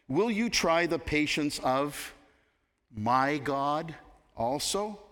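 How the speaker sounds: "my" weighted in "my God also"; stress on my. Shown as a demonstration. Prophet rebuking the king: "my" stressed. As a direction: lean on "my" before "God". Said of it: "Emphasis on my".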